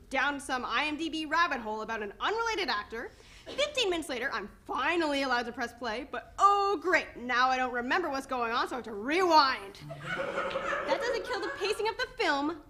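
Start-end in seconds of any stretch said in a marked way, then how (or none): 6.1-12.6 sarcastic. Acted. Sarcastic rant.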